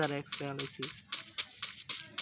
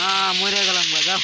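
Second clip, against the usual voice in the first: frustrated shout; 3 semitones higher, 6 dB louder than usual. Real, not acted. Dying in the game, frustrated.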